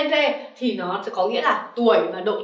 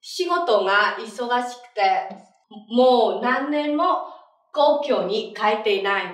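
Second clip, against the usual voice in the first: slow, deliberate reading for students; slow model reading; slower than usual. Shown as a demonstration. Teacher reading the example sentence slowly for the class. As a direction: read each phrase slowly so the class can follow. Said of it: "mọi người cùng đọc với sensei".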